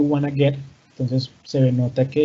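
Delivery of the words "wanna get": "wanna get" glued into one quick word; words joined together. Shown as a demonstration. Teacher demonstrating contractions to students, words run together. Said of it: "cuando pego el".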